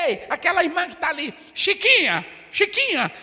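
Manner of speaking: high, loud calling out by name; mocking gossip preacher. Mocking a preacher who singles out a sister. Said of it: "eu não tô falando daquele pregador".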